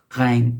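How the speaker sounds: "Ghain" opening on a throaty French R. Shown as a demonstration. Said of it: "the French R sound".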